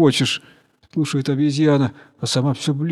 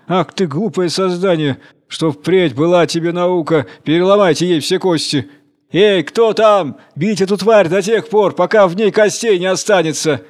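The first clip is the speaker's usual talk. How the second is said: furious dragon; 4 semitones higher, 3 dB louder than usual. Acted. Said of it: "В бешенстве пришёл морской дракон".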